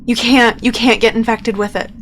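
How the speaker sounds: high, urgent, insistent pleading; alarmed warning. Acted. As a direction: frantically warn friends away. Bo warns of spreading infection.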